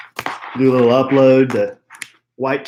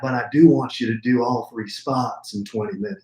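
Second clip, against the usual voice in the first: Sean voice. Pretend. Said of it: "now I'm going into my Sean voice".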